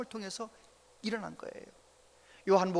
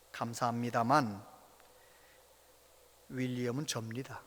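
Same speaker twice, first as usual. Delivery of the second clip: tag only; 8 semitones lower, 6 dB quieter than usual. Retold or imitated. Grandfather's punchline, quiet.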